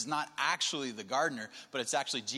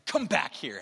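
louder acted parental command; urgent calling back; 5 dB louder than usual. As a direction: call a missing child back to you. Father finds missing daughter.

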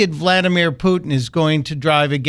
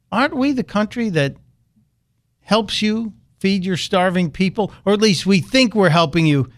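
sarcastic retort; 4 semitones higher than usual. Acted. Rebutting Kim's insult sarcastically.

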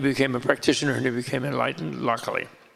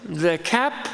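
higher, amused, laughing through the excuse; laughing confession; 3 semitones higher than usual. Retold or imitated. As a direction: confess sheepishly, chuckling. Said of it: "and then he says".

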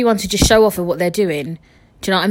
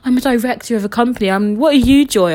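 mock show-off; 4 semitones higher, 4 dB louder than usual. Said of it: "And be like".

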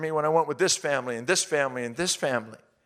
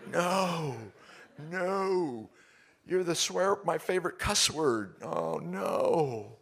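retold dismay; 3 semitones higher, 4 dB quieter, much slower than usual. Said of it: "And I thought".

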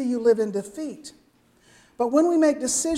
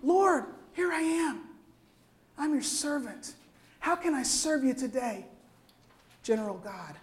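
humble servant prayer; 5 dB quieter than usual. Acted. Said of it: "We're saying".

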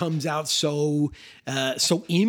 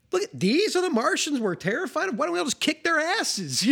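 much higher, eager imitated call to fight; mock rallying cry; 12 semitones higher than usual. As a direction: egg the crowd on in a hammed-up voice. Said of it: "it's like the question".

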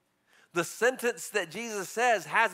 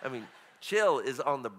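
soft aside; 9 semitones lower, 6 dB quieter than usual. Real, not acted. Quiet aside on chill Jesus.

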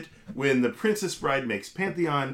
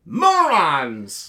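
louder, scornful put-on Vizzini; 6 dB louder than usual. Vizzini scoffing at the philosophers, louder put-on voice. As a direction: spit the insult with contempt. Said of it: "your Vizzini".

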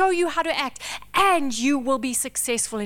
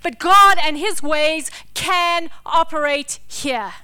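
declaring; 3 semitones higher, 5 dB louder than usual. Acted. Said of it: "standing there declaring".

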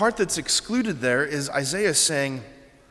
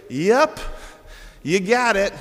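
high, punchy, casual confirmation; mock straight-answer Jesus; 5 semitones higher, 4 dB louder than usual. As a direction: toss out a too-easy yes, loud and raised. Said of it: "he just doesn't speak like that".

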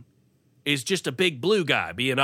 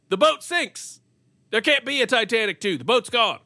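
exasperated; 8 semitones higher, 3 dB louder than usual. Real, not acted. Exasperated rant.

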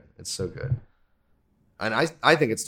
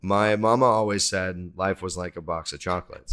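put-on understated Gump-like Southern accent; suppressed Forrest Gump accent; 3 semitones lower than usual. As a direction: try to say it straight, Forrest Gump accent leaking through. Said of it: "you tried not to do the accident".

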